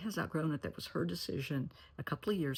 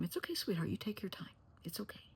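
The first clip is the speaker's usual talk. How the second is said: soft and hushed, fading quieter to the end; gentle reassurance; 3 semitones higher, 5 dB quieter than usual. Pretend. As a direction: coax a nervous little trick-or-treater. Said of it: "Tell them".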